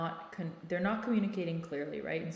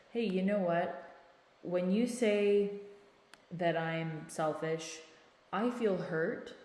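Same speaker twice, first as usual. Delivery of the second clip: calm nonviolent phrasing. Shown as a demonstration. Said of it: "this is more nonviolent communication".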